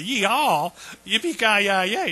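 loud, high yeehaw cheer; hammed-up gung-ho holler; mock cowboy whoop. Mock cowboy cheer Moses didn't give.

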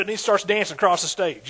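normal talking voice

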